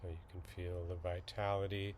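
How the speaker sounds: slightly hushed, even meditation guide; calm, unhurried instruction with long silences; guided meditation. Acted. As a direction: ease listeners into settling, with long pauses.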